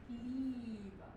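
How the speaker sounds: liebe with a long stretched ie; long German vowel. Shown as a demonstration. Coach shows a long German word, liebe, drawn out. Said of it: "like in German".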